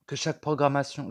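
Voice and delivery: throat still catching after choking on water; speaking right after choking on water; choking on a drink. Real, not acted. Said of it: "je m'étouffe avec mon eau". (voix encore étranglée par l'eau avalée de travers)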